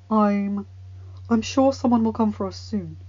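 mildly hopeful reassurance. A narrator's reading. Knight reassuring the trapped prince, hopeful. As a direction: offer hope, slightly lifted. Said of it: "the sword said hopefully".

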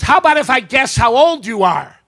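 high, loud acted greeting; forward elderly woman. Elderly woman approaching a gentleman, high loud greeting. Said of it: "She goes".

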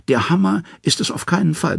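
high, sly trickster voice; high scheming Loki; Loki's claim. A narrator's reading. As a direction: voice Loki well above the narrator, scheming. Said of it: "behauptet er".

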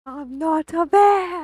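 slow, loud, high drawling Southern yell; an exaggerated Southern drawl, shouted; southern accent. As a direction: belt it out like a good-old-boy Southerner. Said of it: "with that southern accent".

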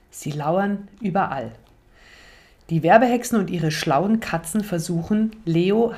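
ruhig erzählend, wie beim Vorlesen für Kinder; Geschichte vorlesen. A narrator's reading. Reads the book aloud. (Vorlesestimme für Kinder)

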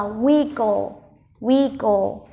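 "WIG-gle", weight on the opening syllable; stress on first syllable. Shown as a demonstration. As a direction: lean on the start of "wiggle", let the end fall. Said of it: "Trọng âm rơi vào âm đầu tiên". (nhấn âm đầu của "wiggle")

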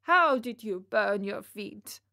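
a hint of a doting father; fond Geppetto. Geppetto addressing his little puppet, lightly acted fond voice. Geppetto greets Pinocchio in story.

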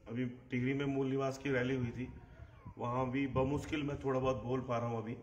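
hoarse and strained after weeks of coughing. Real, not acted. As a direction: push the words through a raw, hoarse throat. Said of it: "हालांकि फटे गले से कह रहा हूँ". (फटी हुई, बैठी आवाज़ में बोलना)

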